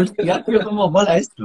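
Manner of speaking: high-pitched replay of amazement; amazed. Retold or imitated. Singer replays his reaction to the manager's praise, amazed. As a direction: act out being thrilled and astonished.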